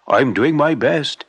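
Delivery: put-on mildly sad, slow old man; understated sorrow, slowly; sad shoemaker. Shoemaker sadly telling his wife he tries, slow. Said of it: "said the shoemaker sadly".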